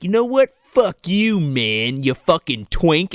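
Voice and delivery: lightly acted angry rant; mock freak-out. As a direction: imitate someone losing it, only half in earnest. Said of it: "freaks out on this dude".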